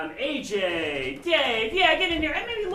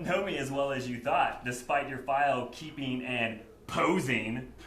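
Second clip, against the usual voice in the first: dramatic ad reading; 2 semitones lower than usual. Shown as a demonstration. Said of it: "I'll read it for you".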